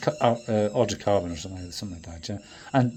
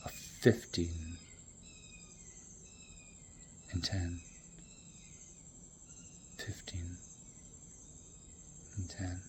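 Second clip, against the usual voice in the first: slow, soft rhythmic counting; 4 semitones lower, 19 dB quieter, slower than usual. Acted. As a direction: count the beat softly. Counting off the beat.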